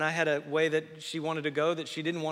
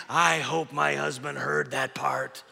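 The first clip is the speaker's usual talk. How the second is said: wife's wish; 5 dB louder, slower than usual. Pretend. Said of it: "every woman is saying".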